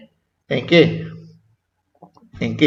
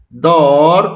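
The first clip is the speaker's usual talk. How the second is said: "Dor" long and firm, on its own; isolated syllable; 4 dB louder than usual. Shown as a demonstration. Teacher naming the first syllable, drawn-out "Dor". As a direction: hold "Dor" as a separate syllable.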